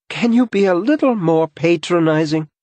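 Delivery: high, loud cutting retort; sarcastic angry interruption; sharp interruption. A narrator's reading. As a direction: cut him off, bristling with sarcasm. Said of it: "Simone interrupts".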